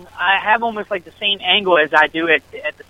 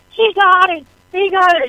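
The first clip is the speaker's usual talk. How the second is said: excited cheer; 13 semitones higher than usual. Retold or imitated. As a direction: shout it like the kick just went in. Celebrating the winning field goal.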